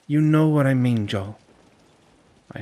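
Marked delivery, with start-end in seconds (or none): 0.1-1.4 firm, higher and louder; insistent. Acted. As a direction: press him, calling his bluff. Andy calls his bluff.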